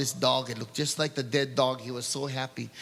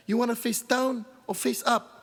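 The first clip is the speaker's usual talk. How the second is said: executioner's voice; 9 semitones higher than usual. Acted. Executioner asks Mano.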